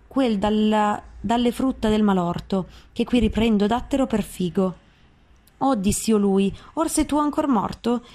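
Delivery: measured, solemn reading of verse; dramatic reading of Dante; poem recitation. Acted. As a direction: recite the canto like an epic. Recites Dante's Inferno aloud.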